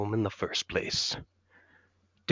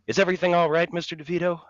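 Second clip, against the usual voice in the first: worried director; 10 semitones higher, 5 dB louder, much faster than usual. Acted. Ivan rushes over worried.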